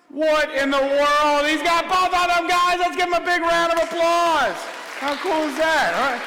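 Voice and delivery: excited hype. Real, not acted. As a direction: sell the reveal like a showman. Magician hypes the trick's reveal.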